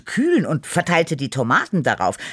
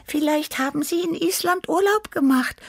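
high, purring little cat voice; purring Tibi. A narrator's reading. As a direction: purr it like a sweet young cat. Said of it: "schlug Tibi vor".

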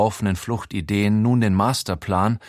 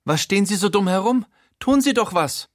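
much higher, shrill-pitched demand, fast; screeching rich lady, much higher and fast; shrieking; 10 semitones higher, 3 dB louder than usual. A narrator's reading. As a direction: shriek at the useless gardener. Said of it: "kreischt sie in Richtung Gärtner".

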